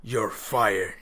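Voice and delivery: put-on deep, evil-sounding voice. Copying a friend's Trump impression, in a deep voice. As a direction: drop it low for a mock villain. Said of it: "It's like a deep voice".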